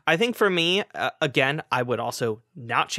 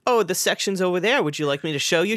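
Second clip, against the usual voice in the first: sweet librarian voice; 6 semitones higher, 5 dB louder, faster than usual. Retold or imitated. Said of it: "librarian's like".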